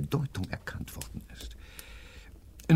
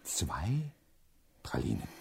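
lower, hushed whisper; 3 semitones lower, 8 dB quieter than usual. Acted. Professor whispers to the patient. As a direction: breathe the question.

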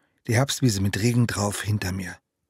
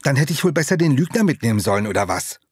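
fast, louder angry retort; boiling anger; 3 semitones higher, 4 dB louder, faster than usual. Acted. Boy snapping back at his friend, anger boiling over. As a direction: let the swallowed rage burst out. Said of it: "Meine eben noch verschluckte Wut kochte blitzschnell wieder hoch".

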